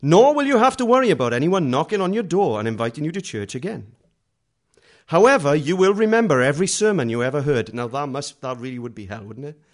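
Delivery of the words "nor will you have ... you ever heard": louder dramatic trailer narration; movie trailer voice. Retold or imitated. Preacher mocking a tract as a film-trailer voiceover, dramatic. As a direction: read it like a film trailer announcer.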